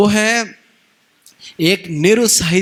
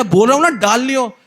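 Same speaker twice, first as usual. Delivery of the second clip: raised, higher insistence; insisting; 6 semitones higher than usual. Retold or imitated. Husband insisting to his wife, raised and higher. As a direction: push the point back at her.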